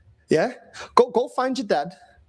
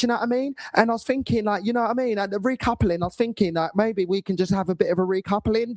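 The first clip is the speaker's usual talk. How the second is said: mock Love Island talk; faster than usual. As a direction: ham up a Love Island contestant. Acting Love Island contestants.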